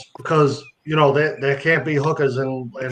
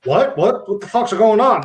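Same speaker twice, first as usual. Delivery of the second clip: higher-pitched, baffled questioning; retold bafflement; 6 semitones higher than usual. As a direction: act out being confused, rising on each question. Retold baffled reaction to friend.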